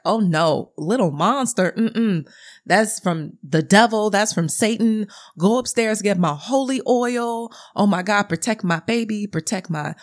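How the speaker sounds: lightly voiced grandmother in mock alarm; alarmed African grandmother. Grandmother rejects the monster bib as devilish, mock-alarmed imitation. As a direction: imitate a devout grandmother fussing, pitched slightly up. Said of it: "And the grandmother, who's African, is like".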